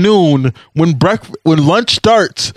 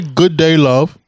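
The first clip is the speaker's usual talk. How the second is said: lightly imitated English accent; much slower than usual. Shown as a demonstration. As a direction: show off a mock English accent. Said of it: "in an English accent".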